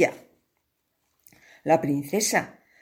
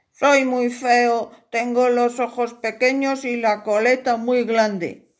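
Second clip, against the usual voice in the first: lightly voiced, a bit higher, bashful painter; shy suitor; 5 semitones higher than usual. Painter tells the princess he is ugly, shy. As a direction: say it humbly, a little shy. Chinchaté character voice.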